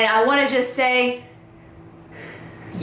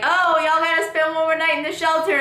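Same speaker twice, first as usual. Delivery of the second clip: mocking TJ; 5 semitones higher than usual. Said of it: "He's like".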